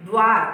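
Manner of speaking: द्वार said with a short half द sliding into व; clear द्व sound. Shown as a demonstration. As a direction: stress the द्व cluster in द्वार. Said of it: "द आधा बोलना है".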